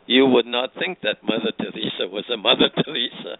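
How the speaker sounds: lightly imitated Swiss accent; deliberate delivery with a hint of Swiss accent; Elisabeth Kübler-Ross. Friend retelling what her mentor said about a saint, light Swiss accent. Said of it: "in her wonderful, uh, accent ... Swiss accent".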